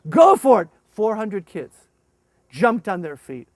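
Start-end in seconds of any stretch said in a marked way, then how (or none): 0.1-0.7 loud high urging; egging them on. Retold or imitated. Urging kids up the steps, loud high. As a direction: send them off to the candy. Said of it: "I said".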